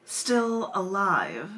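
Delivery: measured, dramatic spoken-word delivery; poem reading. Acted. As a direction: read it like a spoken-word feature, taking time on each phrase. Reads her own poem aloud.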